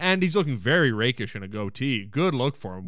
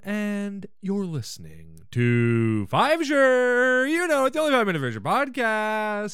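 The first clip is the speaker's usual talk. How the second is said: mock radio host intro; slower than usual.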